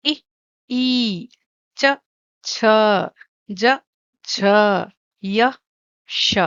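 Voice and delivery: "इ, ई, च, छ, ज, झ, य, श" spaced out one by one for the class to repeat; clear letter drill. Shown as a demonstration. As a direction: pause after each letter so pupils can echo it. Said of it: "all of you to say the letters along with me".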